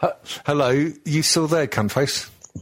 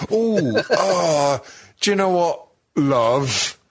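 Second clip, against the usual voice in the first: mock sweet husband voice; 6 semitones higher, slower than usual. Mock husband asking wife.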